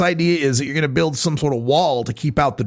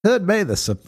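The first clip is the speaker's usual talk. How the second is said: mock disgust. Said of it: "You gotta have that little disgust whenever you say marijuana".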